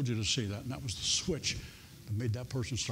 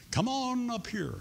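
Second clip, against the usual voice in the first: inviting call; 8 semitones higher than usual. Real, not acted. Calling people forward for prayer.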